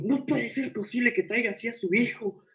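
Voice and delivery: teacher on the phone berating a mom, lightly mocked; mock yelling teacher. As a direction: ham up the teacher's shriek without volume. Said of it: "le estaba gritando".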